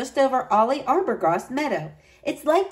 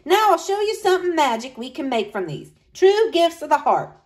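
higher, eager grandma promising magic; a grandmother sharing a secret, lifted; old woman's voice; 6 semitones higher, 4 dB louder than usual. A narrator's reading. Grandmother to the children, eager and higher.

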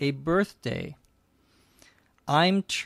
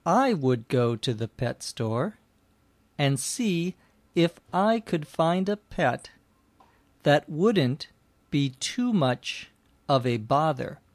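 story narration. Acted. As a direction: read the tale clearly for language learners. Reads a story for learners.

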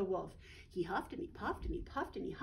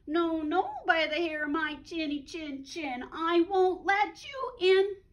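loud, higher defiant refusal; defiant pig; 5 semitones higher, 8 dB louder than usual. Acted. First pig refusing the wolf, loud and defiant. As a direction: shout it back from the window.

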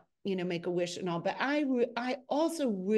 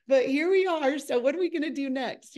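higher-pitched, insistent comeback; brisk deflection; 6 semitones higher, 4 dB louder than usual. Retold or imitated. Embarrassed crew member answering the director, brisk deflection. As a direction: act out hurrying back to business.

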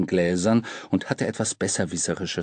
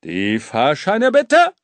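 Schaffnerruf; 5 semitones higher, 6 dB louder, slower than usual. A narrator's reading. Schaffner verlangt Fahrscheine.

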